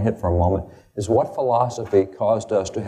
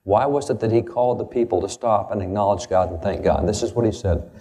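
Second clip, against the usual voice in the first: ordinary delivery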